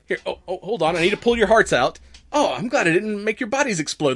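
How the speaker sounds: put-on scatterbrained Valley Girl goddess; Valley Girl accent. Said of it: "almost Valley Girl accent".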